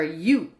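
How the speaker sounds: "you" with a clear y-glide, as a sound example; wrong vowel example. Shown as a demonstration. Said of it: "U isn't like Zhu".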